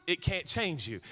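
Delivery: ordinary delivery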